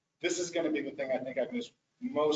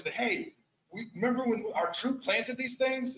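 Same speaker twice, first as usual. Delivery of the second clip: put-on higher-pitched teenage voice; imitated teenage kid; 9 semitones higher than usual. Teenage kid talking to his friends at the preserve, imitated higher. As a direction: play a kid calling to friends. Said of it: "this teenage kid comes out there and says".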